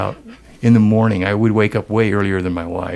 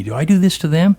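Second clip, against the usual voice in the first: much higher, startled question; stunned realization; 8 semitones higher than usual. Retold or imitated. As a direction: pitch way up in disbelief. Sudden self-realization.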